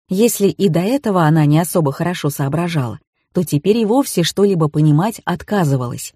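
ordinary delivery, nothing marked

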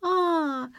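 put-on high-pitched little girl's cry; cry of alarm. A narrator's reading. Girl cries out from another room, high and alarmed. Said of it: "закричала из комнаты Лера".

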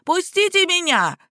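high, bleating wail; goat-like yelp. A narrator's reading. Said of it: "козлиный вопль".

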